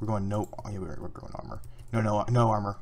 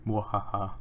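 evil villain laugh; 4 semitones lower, slower than usual. Acted. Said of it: "evil villain laughter".

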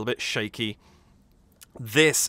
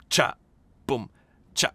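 imitated staccato beat. Shown as a demonstration. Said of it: "it's very cut off".

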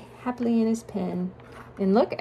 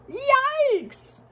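startled yikes. Acted. Story character startled.

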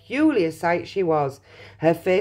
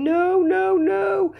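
high, panicky Mr Wonka; frantic protest; 12 semitones higher, 5 dB louder than usual. A narrator's reading. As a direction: plead with rising alarm to stop. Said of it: "wringing his hands and saying".

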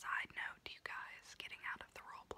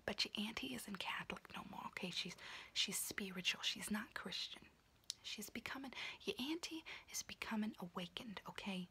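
whispering auntie roleplay. Acted. Auntie whispering to her niece while doing her nails, in a confiding unvoiced whisper. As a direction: whisper close and chatty like a kooky aunt doing your nails.

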